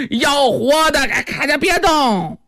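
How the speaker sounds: high-pitched urgent order; urgent command. Acted. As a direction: call out an order to hold. Repeating order to take captive.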